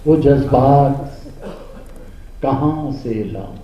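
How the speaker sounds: slow declaimed verse, dropping at the end; mushaira recitation. Acted. Poet asking his question in verse, declamatory. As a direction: draw out the phrase, then let it fall. Continues the rubai.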